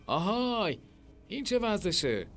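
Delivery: high-pitched call of objection; indignant protest. A narrator's reading. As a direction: protest at being dragged from bed. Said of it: "به اعتراض گفت". (با اعتراض و صدایی بالا)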